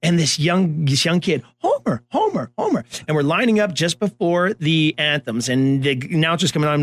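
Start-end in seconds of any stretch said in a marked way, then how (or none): 1.6-2.8 put-on high eager child's call; kid calling out. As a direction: shout the name across the field like a young fan.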